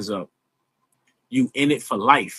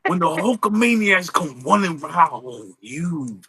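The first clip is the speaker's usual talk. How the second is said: Hulk Hogan impression; 2 semitones higher, slower than usual. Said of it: "I used to do Hulk Hogan".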